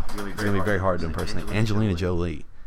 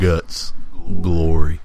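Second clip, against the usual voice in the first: Sam Elliott impression; 2 semitones lower, 6 dB louder, much slower than usual. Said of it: "You're gonna talk like Sam Elliott".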